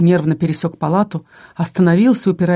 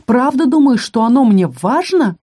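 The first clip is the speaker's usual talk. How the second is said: furious; 6 semitones higher than usual. A narrator's reading. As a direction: flare up at her, barely holding the fury. Furious man voiced in story. (разгневанно, с нарастающей яростью)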